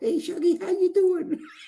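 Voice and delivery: tiny, very high, squeaky little voice. Telling how a poker player greeted him, imitating Rev's squeaky voice. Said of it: "in that little squeaky voice he's got".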